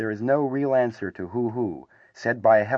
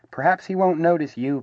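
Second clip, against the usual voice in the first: encouraging, lifted higher in pitch; 8 semitones higher, 4 dB louder than usual. A narrator's reading. Bear reassures his small frightened friend, encouragingly. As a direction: cheer a worried friend on, voice raised. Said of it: "said Pooh encouragingly".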